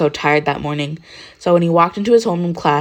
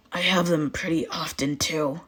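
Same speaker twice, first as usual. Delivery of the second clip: awkward; 8 dB quieter than usual. A narrator's reading. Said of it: "Katsuki said awkwardly".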